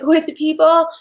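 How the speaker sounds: laughing. Real, not acted. Laughing at own pep talk.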